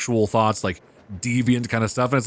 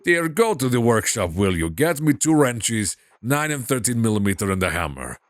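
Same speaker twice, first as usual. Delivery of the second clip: father's lightly Russian voice; Russian accent; 3 semitones lower than usual. Acted. Father sending daughter for tools, light Russian accent. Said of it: "him a Russian accent".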